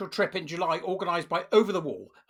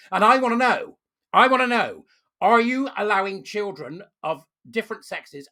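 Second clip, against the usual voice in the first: I wanna know said louder, both times; loud demand; 3 semitones higher, 6 dB louder than usual. Real, not acted. Vlogger demanding answers from the charity, loud insistent voice. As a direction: demand it, raising the voice.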